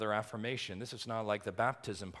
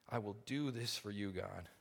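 hushed vow; 5 dB quieter than usual. Acted. Quiet vow after the fervor.

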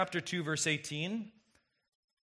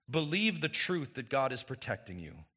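usual speaking voice

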